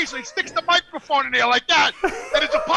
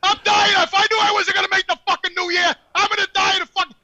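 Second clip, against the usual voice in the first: retold panic; 5 semitones higher, 4 dB louder than usual. Acting out his heart-attack panic.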